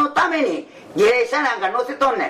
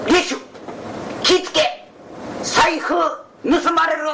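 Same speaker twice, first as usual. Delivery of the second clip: calling out warning; 5 semitones higher than usual. Acted. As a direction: shout a warning to the geisha.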